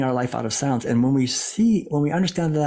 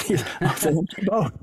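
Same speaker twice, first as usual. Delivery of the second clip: laughing it off; 4 semitones higher than usual. Retold or imitated. Man in the boat realizes it's empty, laughing. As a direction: chuckle as the anger melts away. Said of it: "he starts laughing".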